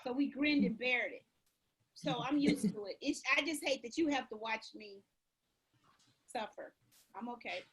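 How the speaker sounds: tired, drained and overheated; worn out. Real, not acted. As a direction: speak like you're exhausted from the heat. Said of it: "she's kind of suffering".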